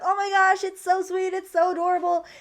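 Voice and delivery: high-pitched imitated viewer's gushing. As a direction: coo over something adorable, playfully acted.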